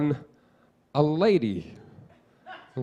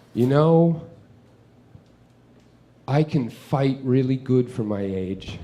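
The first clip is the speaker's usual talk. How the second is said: mock kid menace; 3 semitones lower, slower than usual. Child's menacing boast in hallway.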